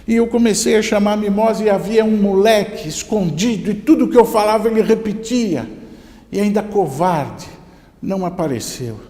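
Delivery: high, loud indignant complaint; upset boy. Acted. Upset boy tells his father about the hidden kid, indignant. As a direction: complain hotly like a wronged child. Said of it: "aborrecido, amargurado".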